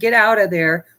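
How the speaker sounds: ordinary talk, nothing marked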